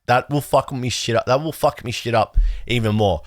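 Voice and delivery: "me" said in place of "my", pirate-style; a slip into pirate-style "me shit". Real, not acted. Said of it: "Why'd I say it like that?".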